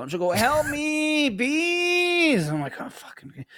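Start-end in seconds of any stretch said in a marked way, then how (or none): 0.3-2.5 put-on very high, squeaky little-kid voice; imitating toddler daughter. Toddler daughter whining to dad for help, very high squeak. 2.8-3.5 whispered, defeated aside; under-breath mutter. Retold or imitated. Tired dad giving in to his daughter, whispered under breath. Dad's weary reply.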